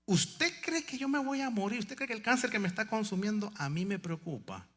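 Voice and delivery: a hint of the defiant old sister; voicing the sister with cancer, mildly; dying sister. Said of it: "Venimos a consolarla".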